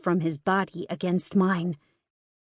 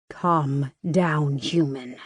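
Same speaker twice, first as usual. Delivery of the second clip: lower, gravelly and calm; 5 semitones lower, much slower than usual. Acted. Captor soothing the struggling girl, low gravelly voice. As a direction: rumble it low from the chest. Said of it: "His voice is gravelly".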